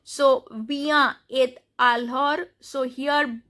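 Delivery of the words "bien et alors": careful "alors" ending on r; "alors" with the R sounded, S dropped; silent S, sounded R. Shown as a demonstration. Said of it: "S is not pronounced".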